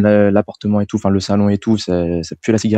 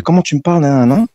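angry retort; 6 semitones higher than usual. Retold or imitated. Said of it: "Du coup, énervé".

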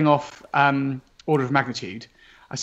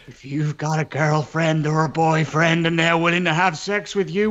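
booming movie-trailer announcer, low and slow; deep trailer voice; slower than usual. Pretend. Game developer hams up a trailer read for his colleague, deep announcer voice. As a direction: sell it like a cinema trailer narrator. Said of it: "I've got to get my deep voice going".

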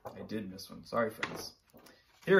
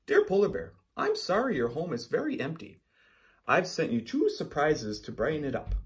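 bright, higher kind koala voice; letter voice of koala; 5 semitones higher, 3 dB louder than usual. Acted. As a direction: read it as a caring friend.

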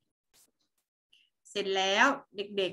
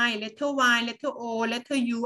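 slow spelling; much slower than usual. Shown as a demonstration. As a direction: spell it out very slowly, letter by letter. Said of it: "teacher spelling for class". (สะกดทีละตัวช้าๆ)

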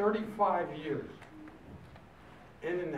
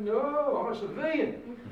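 louder and higher, laughing "No"; loud refusal; 11 semitones higher, 8 dB louder, slower than usual. Retold or imitated. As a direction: turn the offer down with a laugh. Refusing the officer, half laughing.

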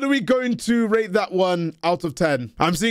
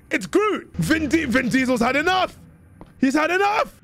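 high, excited yelling about Groot; excited shouting; 6 semitones higher than usual. Real, not acted. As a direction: shout it out in disbelief.

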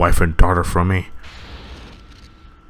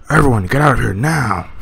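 higher call to flee; urgent warning; 6 semitones higher than usual. Acted. Father warning everyone to flee, urgent. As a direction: shout them out of the room.

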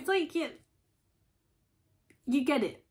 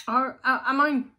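louder, higher pointed self-question; 5 semitones higher, 10 dB louder than usual. Pretend. Inner voice questioning itself, louder and higher. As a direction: call yourself out loudly. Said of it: "take a step back and go".

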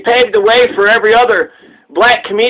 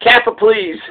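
friendly tone. Shown as a demonstration. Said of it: "the okay way to say Kafir".

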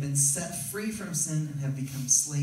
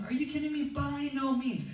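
emphatic Paul rebuttal; 10 semitones higher than usual. Retold or imitated. Paul's emphatic rebuttal voiced.

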